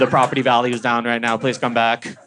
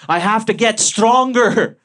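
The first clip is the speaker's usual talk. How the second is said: put-on high, slow determined old lady; grandma vowing to toughen up; 9 semitones higher, 4 dB louder, slower than usual.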